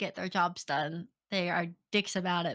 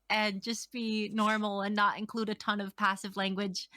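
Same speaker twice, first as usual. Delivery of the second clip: mock surprised realization; 3 dB louder than usual. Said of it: "I'll be like".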